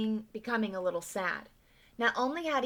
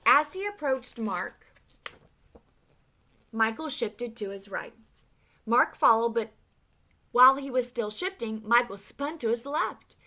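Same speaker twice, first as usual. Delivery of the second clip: building excitement; 5 semitones higher, 8 dB louder than usual. A narrator's reading. Narrating the winning shot.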